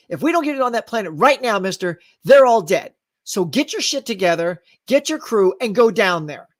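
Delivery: mildly riled, spoken out plainly; heated normal talk. Shown as a demonstration. Officer urging a crew down to a planet, riled full voice. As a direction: press the order in full voice. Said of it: "That's how people talk".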